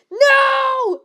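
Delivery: sudden high yelled no; a high, sharp shout of protest. A narrator's reading. Lupin caught by chains, high shout. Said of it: "Lupin shouted".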